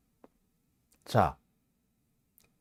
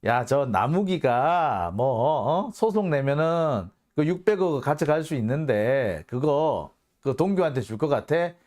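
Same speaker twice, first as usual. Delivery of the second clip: boasting. Retold or imitated. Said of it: "큰 소리를 떵떵 칩니다".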